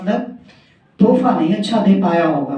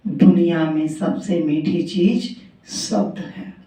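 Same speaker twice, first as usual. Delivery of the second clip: the lesson said slowly and softly; slow soft moral; 5 dB quieter than usual. Shown as a demonstration. Storyteller giving listeners the moral, slow and soft. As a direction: land the moral gently, drawn out. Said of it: "तो आज पता चला".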